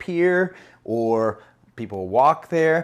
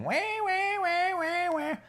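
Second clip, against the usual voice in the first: very high, softer wah-wah wail; mock whining; 13 semitones higher, 6 dB quieter than usual. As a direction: imitate a whiner in a squeal. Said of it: "they're used to whining".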